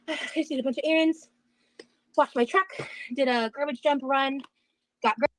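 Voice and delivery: breathless after sweeping; talking out of breath, panting. Real, not acted. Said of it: "And she is so out of breath".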